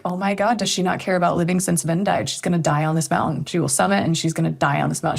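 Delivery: fast, rattled-off worried thoughts; retold alarm. Voicing a climber's fears about her stubborn partner, hurried retold alarm. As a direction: run the anxious thoughts together quickly.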